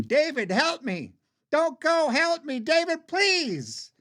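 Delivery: high, pleading wail, last word drawn out; crying out. Acted. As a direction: beg desperately to be saved. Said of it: "cry my name".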